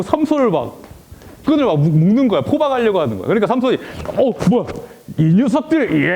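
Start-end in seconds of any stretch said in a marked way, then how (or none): 4.1-6.1 Samson's roar. Acted. Samson fighting his captors.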